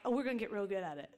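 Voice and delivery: fast, eager and bouncy; gleeful fast promise; excited. Retold or imitated. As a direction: rush it out with glee. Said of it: "he was excited when he said it".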